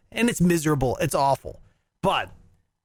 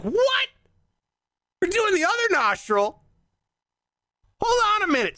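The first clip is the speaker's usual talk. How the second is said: high, incredulous protest; retold disbelief; 13 semitones higher than usual. Told to switch nostrils, he protests in high disbelief. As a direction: act out being stunned by the order. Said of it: "It's like".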